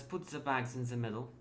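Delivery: put-on light French accent on the command. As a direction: give the order in a hint of French. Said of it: "Is this French?".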